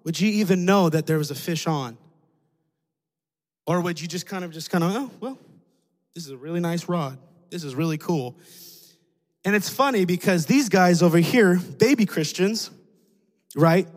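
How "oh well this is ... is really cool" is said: soft, self-satisfied murmur; complacent musing. Pretend. Mature Christian admiring his rod, softly complacent. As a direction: admire your own rod, oblivious.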